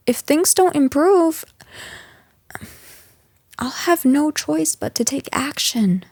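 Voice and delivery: soft whispered threat of consequences; hushed warning. Acted. Boss quietly threatens employee.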